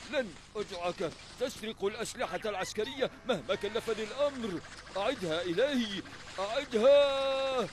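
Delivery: high, loud demanding yell; angry shouting. Acted. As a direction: bellow it after him. Chasing thief, yelling.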